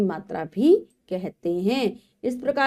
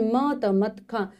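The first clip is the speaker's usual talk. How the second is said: spelled out slowly; slower than usual. Shown as a demonstration. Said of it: "spelled out before the sentence".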